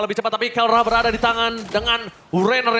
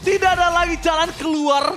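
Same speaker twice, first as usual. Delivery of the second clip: excited shout; 4 semitones higher than usual. Real, not acted. Caster calls a kill.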